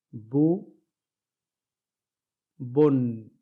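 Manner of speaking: ب then بن, بی then بن, بو then بن, the n added each time; contrast drill. Shown as a demonstration. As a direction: alternate plain and nunated syllables. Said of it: "پھر سے دیکھیے". (ایک حرکت اور تنوین کا فرق دکھاتے ہوئے)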